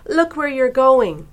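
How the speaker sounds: storybook shout. A narrator's reading. Myrtle to whoever crashed into her, storybook shout. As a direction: shout it for young listeners. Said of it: "she shouted".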